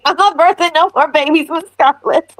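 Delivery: hammed-up southern movie line; mock southern belle. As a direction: play up a Southern accent. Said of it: "I don't sound like that".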